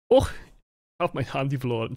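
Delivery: mock German lament; comical German accent. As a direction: complain in a caricatured German accent. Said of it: "Germans becoming increasingly comical".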